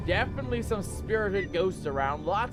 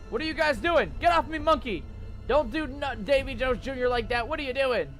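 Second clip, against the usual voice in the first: alarmed shouting; 5 semitones higher than usual. Real, not acted. Scolding ghosts and monkey.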